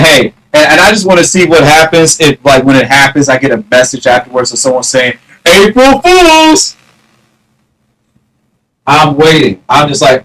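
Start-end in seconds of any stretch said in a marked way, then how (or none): 5.4-6.8 high, slow singsong April Fools; mock taunt. Imagined prankster messages the streamer, singsong taunt. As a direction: tease like a prankster.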